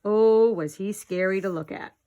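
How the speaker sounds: milk the scariness; dramatic. Acted. Building the scary story.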